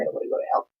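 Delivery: breathy whispered repeat; whispered plea. Retold or imitated. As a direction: whisper it like a scared confession.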